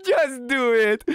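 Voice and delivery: loud, high insistent order; bossy wife. Retold or imitated. The wife urging her husband, loud and high. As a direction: push the husband to act. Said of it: "She was like".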